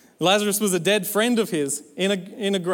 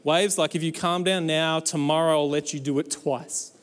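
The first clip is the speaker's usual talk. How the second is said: negotiating; 3 semitones lower than usual. Acted. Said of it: "standing on the boat negotiating".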